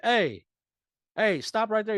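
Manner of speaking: high, loud imitated holler; excited fan calling out. Fan spots him at Walmart, loud excited call. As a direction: imitate a stranger hailing someone across a store.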